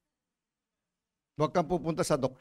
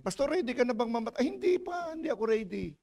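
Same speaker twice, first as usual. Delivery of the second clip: retold exchange; 5 semitones higher, 4 dB quieter than usual. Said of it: "nagtatanong sa akin".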